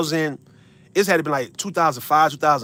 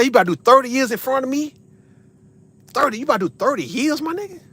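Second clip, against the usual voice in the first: incredulous; 7 semitones higher than usual. Retold or imitated. Incredulous at thirty-year sentence.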